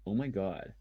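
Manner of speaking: lightly voiced American accent; a hint of American gossip. Shown as a demonstration. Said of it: "I can get into American by just being like".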